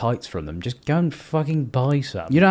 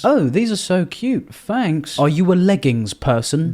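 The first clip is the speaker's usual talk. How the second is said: higher, slower gushing voice; mock gushing; 5 semitones higher, 4 dB louder than usual. Reading the guy's message as mock gushing creep. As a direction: coo over the pictures. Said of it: "Maybe he just loves legs".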